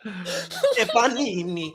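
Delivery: slow mock Italian panini; a lazy hammed-up Italian drawl; fake Italian accent. Naming a dish in a mock Italian accent. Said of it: "fake Italian accent".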